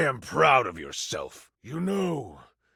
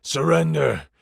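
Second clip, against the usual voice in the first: villain quoting a threat; 3 semitones higher, 8 dB louder than usual. Acted. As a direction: throw the word out like an order. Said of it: "a monologue for him".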